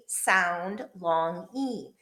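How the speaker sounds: the long E stretched out slowly; long E sound. Shown as a demonstration. Teacher modeling the long E sound for young students, slow and clear. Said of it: "the next thing that we're gonna talk about is the".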